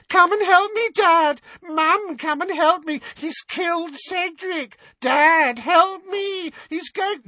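loud, squealing mock wail; exaggerated terrified whimper, very high; high-pitched whimpering. A narrator's reading. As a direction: cry for Mum and Dad in a jeering falsetto. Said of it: "adopted a high-pitched whimpering voice".

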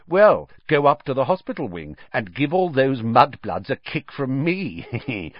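enjoy your own cruel joke; bully laughing as he sends a friend off; snickering. Acted.

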